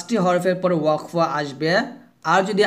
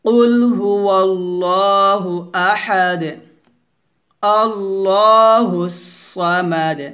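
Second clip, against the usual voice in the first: recitation for repeating; slower than usual. Shown as a demonstration. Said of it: "আবার বলেন".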